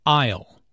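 aisle said as "ile" with no s sound; silent s. Shown as a demonstration. Teacher models aisle, s silent. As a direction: aisle rhymes with mile, s silent. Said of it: "Notice the silent S in aisle".

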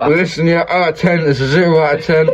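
talking through a burning mouth; words strained by spice pain; burnt mouth. Real, not acted. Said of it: "You can't even talk".

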